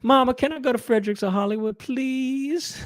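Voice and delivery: mock little-girl plea, please drawn up high; pleading child. A girl begging mom for Frederick's, wheedling. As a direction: wheedle like a kid asking mom.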